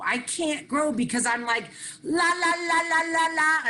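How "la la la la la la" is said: put-on a stubborn little girl drowning out the truth; childish la la la. Little girl plugging her ears refuses to listen, sing-song. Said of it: "I'm holding my ears".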